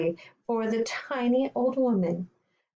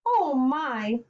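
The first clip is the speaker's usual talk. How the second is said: higher, pleased little exclamation; mildly surprised cry; 4 semitones higher than usual. Acted. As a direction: exclaim gently, as if flattered. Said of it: "cried the old, tiny old woman".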